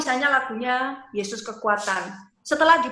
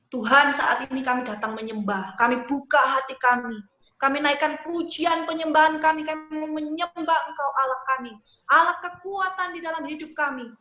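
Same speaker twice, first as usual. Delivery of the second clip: worship prayer voice; 2 semitones higher than usual. Shown as a demonstration. Leader models a worship prayer building up to God. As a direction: lift the intonation a little as you go. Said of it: "intonasinya juga bisa ditinggikan sedikit".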